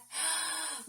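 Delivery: quick breath in; deep breath in. Shown as a demonstration. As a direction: breathe in deeply. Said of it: "Take a deep breath".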